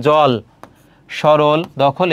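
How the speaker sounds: জল, সরল, দখল with open "aw" vowel; natural open অ. Shown as a demonstration. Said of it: "অ এর নিজস্ব উচ্চারণ".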